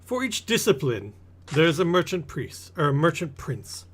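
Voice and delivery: lightly pompous explainer; lecturing merchant. Acted. Merchant explains the city's princes to newcomer, lightly pompous.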